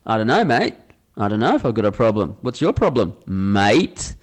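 sparring back in kind; ready to go, pub stand-off; answering the challenge. Acted. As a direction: throw the challenge back, leaning on mate. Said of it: "this guy's ready to go".

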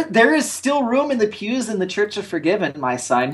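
lightly voiced preacher addressing a sinner; mock preacher. Inviting a hater into the Church of Forgiven, mock preacher.

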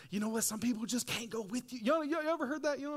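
high, sing-song preacher voice; mock preacher. Preacher mimicking typical church preachers, sing-song. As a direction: imitate a churchy preacher line. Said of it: "preachers are just like".

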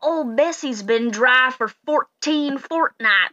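very slow country farmer voice; slow folksy farmer. Acted. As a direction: drawl it out like a grateful old farmer. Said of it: "and he goes".

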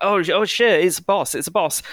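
high alarmed panic at a surprise boss; startled. Retold or imitated. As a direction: caught off guard, blurting it out. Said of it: "you're like".

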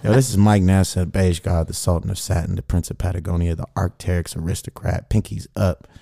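smooth, lightly put-on radio introduction; playful suave DJ patter; sexy voice. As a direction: introduce the track like a silky late-night host. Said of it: "I'm on my sexy voice".

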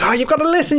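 high-pitched imitation of pleading; mock pleading. Podcaster mimicking men begging their other halves to listen, mock pleading. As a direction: put on a rising, wheedling plea.

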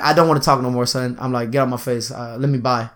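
low, soft, contained anger; restrained brush-off in an undertone; keeping composure. Retold or imitated. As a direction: hold the temper down, low and quiet. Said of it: "to keep my composure".

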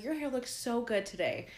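lightly hammed-up sweetness; sweet compliment. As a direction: imitate a friendly girl admiring someone. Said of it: "she was just so sweet".

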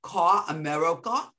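little boy echoing a New York accent, lightly imitated. Nanny quoting the little Spanish boy, imitated New York accent. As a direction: drop the R's in park and car, like a kid copying. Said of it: "that's how I picked up my accent".

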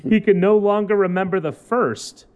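measured newspaper read-aloud; lightly performed human-interest news read; news story read. Acted.

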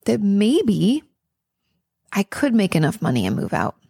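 gentle, unsure self-talk; tentative, hopeful self-talk said gently. Shown as a demonstration. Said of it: "those bridge statements can be".

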